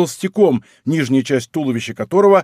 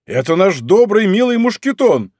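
delighted; 6 semitones higher, 4 dB louder than usual. A narrator's reading. Greeting an old servant.

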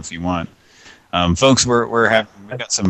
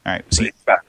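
normal talking voice

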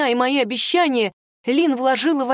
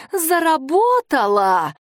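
insistent cry; 6 semitones higher, slower than usual. A narrator's reading. Girl repeats louder.

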